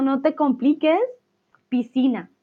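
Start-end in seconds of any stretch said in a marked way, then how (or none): 1.7-2.3 "Piscina" with the SC said as a single S; S only. Shown as a demonstration. Teacher telling Olga not to complicate it, "Piscina" with only an S. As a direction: drop the C from "Piscina", keep one S. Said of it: "Como si la C no estuviera".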